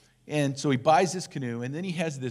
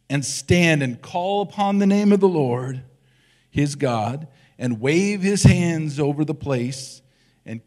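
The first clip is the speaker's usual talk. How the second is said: loud, indignant reading of the general's complaint; a swelling, offended protest delivered loud; angry Naaman; 8 dB louder than usual. A narrator's reading. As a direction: read it like an insulted proud commander, louder. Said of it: "But Naaman was angry".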